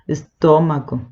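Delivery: "estómago" with a half-closed, rounded mouth; nasal Portuguese pronunciation. Shown as a demonstration. Teacher showing the Portuguese sound, nasal "estómago". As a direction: say "estómago" nasally, mouth not fully open. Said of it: "darle un cierto sonido nasal".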